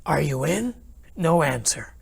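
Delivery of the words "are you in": calling out. Retold or imitated. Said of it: "So I called".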